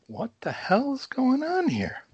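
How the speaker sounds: high, slow bewildered; confused, drawn-out alarm. Retold or imitated. Alarmed at the march music.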